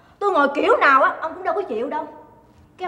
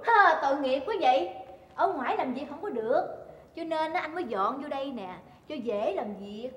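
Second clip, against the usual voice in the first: mock sympathy; 8 dB quieter than usual. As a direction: coo it quietly with sarcasm. Wife mock-sympathizes with accused husband.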